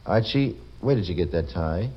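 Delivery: "Archie" lifted as a question, "tie" rising at the end; inquiring. Shown as a demonstration. Host demonstrating the inflection exercise, inquiring, "tie" rising. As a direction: ask "Archie, where did you get that tie" curiously, "tie" going up. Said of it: "you say it inquiringly".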